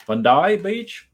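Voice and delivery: put-on laughing stab at an Australian accent on "Bondi Beach"; mock Australian accent. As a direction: play the Aussie, drawing out "Bondi Beach" with a laugh. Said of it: "there you go, with my Australian accent".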